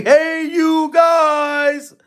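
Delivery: slow, high imitation of the Goonies character; Goonies movie quote. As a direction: drag it out slowly like the movie line. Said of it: "the dude from The Goonies that say".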